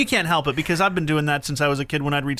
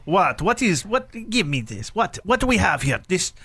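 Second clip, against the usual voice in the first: puzzled questions in a put-on Russian accent. Dad teasing his daughter while grocery shopping, Russian accent. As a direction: play a suspicious Russian inspecting something. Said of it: "muttering to myself in a Russian accent".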